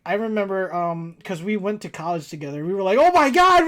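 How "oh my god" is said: high, loud mock squeal; overexcited re-enacted exclamation; excited outburst, retold. Friend re-enacting their college days, mock-excited.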